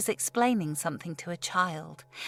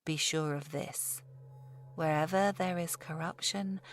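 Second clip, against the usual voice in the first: condescending scholar. Acted. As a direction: explain it down to a child, scholarly. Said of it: "almost sounding condescending".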